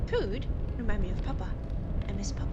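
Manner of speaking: hungry creature voice. Acted. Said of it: "I don't know why I'm saying it like that".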